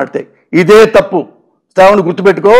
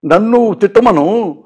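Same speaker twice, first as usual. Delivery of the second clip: softly imitating a tearful brother; a mild, hushed hint of tears; quietly retelling a hurt plea; 4 dB quieter than usual. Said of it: "కన్నీళ్ళు పెట్టుకుని మాట్లాడుతుంటే".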